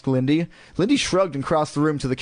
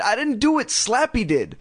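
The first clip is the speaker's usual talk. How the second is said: high-pitched defensive protest; crying out; 10 semitones higher than usual. A narrator's reading. Girl blaming the dummy, crying out in protest. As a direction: plead innocence, pitch way up. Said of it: "Lindy cried".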